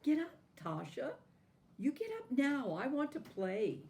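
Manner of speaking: high, loud, demanding little doll; a spoiled toy ordering her owner around; bossy doll voice. A narrator's reading. Doll bossing Tasha to get up, high and demanding. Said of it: "the doll said".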